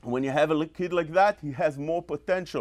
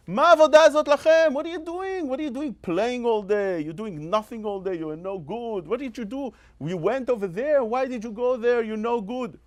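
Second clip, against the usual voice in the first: harsh father of a rasha; 4 semitones higher than usual. Retold or imitated. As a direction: nag the child like a fed-up father. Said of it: "You know what he says?".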